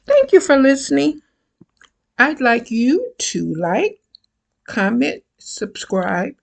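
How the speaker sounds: cheerful quick thanks; upbeat outro; bright sign-off. Real, not acted.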